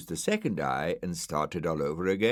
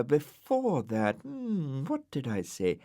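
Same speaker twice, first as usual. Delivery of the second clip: stalling; 8 semitones higher than usual. A narrator's reading. Brian stalling.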